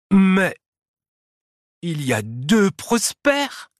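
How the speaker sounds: high, stretched-out disbelief; astonished exclamation. A narrator's reading. Mole sees two Prospers, exclaims in astonishment. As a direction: stop short, then exclaim in amazement. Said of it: "s'exclama la taupe".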